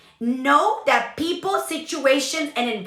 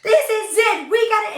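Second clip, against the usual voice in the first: higher, louder, fed-up outburst; fed-up declaration; 7 semitones higher, 3 dB louder than usual. Retold or imitated. Wife storms in from the rain, fed-up declaration. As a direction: announce it like you've had enough. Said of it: "I was so mad".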